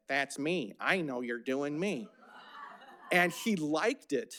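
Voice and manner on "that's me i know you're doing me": lightly put-on voice of a negative manager; Dick Rawls. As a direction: mildly imitate a boss recognizing himself. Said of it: "Rawls went up to Wallace".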